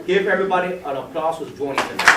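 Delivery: rally the room for applause; calling out. Real, not acted. Presenter asks the whole room to applaud new members, loud.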